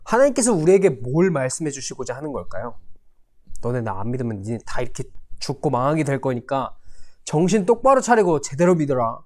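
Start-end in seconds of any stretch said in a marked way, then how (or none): 3.6-9.2 acted threat. God imagined warning his people, in a mock threatening tone. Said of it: "이렇게 협박하는 것처럼 들리지 않아요?".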